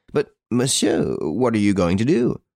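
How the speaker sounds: understated anxious protest, rising at the end; anxious exclamation. A narrator's reading. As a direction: ask with a touch of alarm. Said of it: "exclaimed anxiously".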